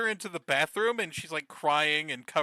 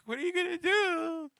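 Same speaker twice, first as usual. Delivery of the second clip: high, mock-scared Caroline voice; imitating Caroline; 11 semitones higher, 4 dB quieter than usual. Damon asking Caroline, a high frightened mock voice. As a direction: squeak it out like a frightened girl. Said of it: "so Caroline's like".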